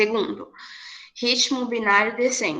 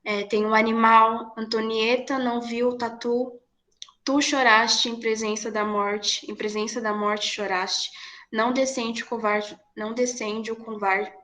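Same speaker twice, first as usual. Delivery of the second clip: two weak beats then a strong one, recited; ascending ternary rhythm. Shown as a demonstration. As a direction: lean on every third syllable. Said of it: "Fica assim". (recitação em ritmo ternário ascendente)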